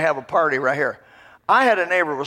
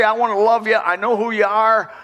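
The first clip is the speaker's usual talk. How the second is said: sample prayer; 4 semitones higher than usual. Pretend. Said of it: "go to God and say".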